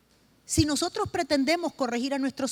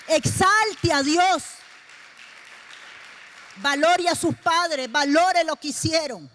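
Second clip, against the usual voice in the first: exhorting praise; 3 semitones higher, slower than usual. Real, not acted. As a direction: lift the congregation, stretching each word. Preacher exhorting the congregation.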